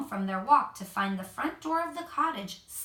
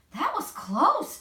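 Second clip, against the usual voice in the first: higher, louder, slow breathless relief; huffing; 7 semitones higher, 6 dB louder, slower than usual. A narrator's reading. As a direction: puff it out after running home. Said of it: "she huffed".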